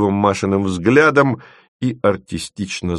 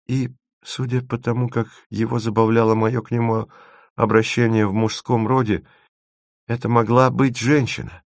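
small, raised voice, working it out; Masha, reasoning; 4 semitones higher than usual. Acted. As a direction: pitch it up and think aloud.

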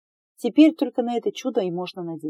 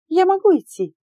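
much higher, loud squeak of a question; 11 semitones higher, 6 dB louder than usual. A narrator's reading. Tearful candidate asking to leave, high squeak. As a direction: squeak it out in fright. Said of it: "пискнула я".

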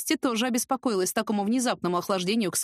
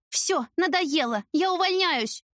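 high, slow, exasperated quitting; fed-up outburst; 9 semitones higher, slower than usual. Acted. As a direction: blurt it out at the end of her rope. Героиня в ярости уходит. (раздражённо, на взводе)

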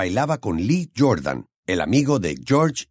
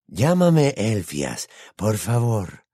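put-on kindly old wizard; much slower than usual. Old wizard invites first name.

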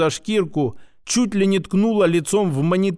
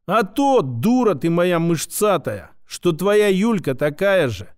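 shout. Acted. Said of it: "крикнула в лицо блондинке".

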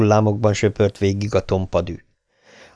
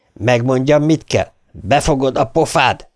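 mock shout; 4 semitones higher than usual. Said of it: "üvöltötte a férfi".

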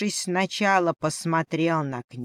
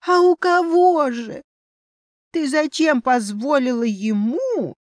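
высокий писклявый голос возмущённого фамильяра; громко и обиженно, как маленький зверёк; обиженный мышонок; 4 semitones higher, 4 dB louder than usual. Acted. Обиженный фамильяр-мышь кричит. (обиженный писклявый мышонок)

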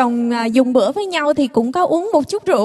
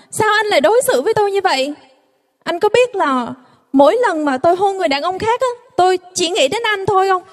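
fast, indignant wife hitting back; retold fury; 4 semitones higher than usual. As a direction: rattle it off in mock outrage. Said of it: "giận điên lên". (vợ giận dữ vặn lại chồng, nói nhanh)

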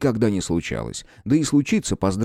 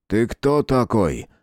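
gloomy question; slower than usual. Acted. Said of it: "хмуро спросил он".

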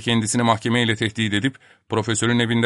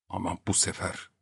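barely voiced hushed whisper; fısıltı; 3 semitones lower, 11 dB quieter than usual. A narrator's reading. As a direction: breathe it out softly. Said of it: "kısık bir sesle fısıldadı". (kısık sesle fısıltı)

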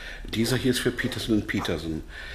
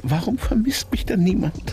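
a high, breathy whisper of despair; 11 semitones higher, 4 dB louder than usual. Acted. Prisoner left alone wondering why nobody misses him, whispered. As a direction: whisper the question to yourself, lost.

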